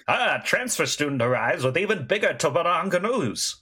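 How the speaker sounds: lightly voiced old-time radio announcer; a hint of a vintage announcer; grand old ballroom announcer. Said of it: "old-timey radio announcer voice".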